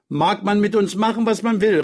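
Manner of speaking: put-on high, defiant little girl; girl calling out. A narrator's reading. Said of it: "rief Sonja". (trotzig rufende, hohe Mädchenstimme)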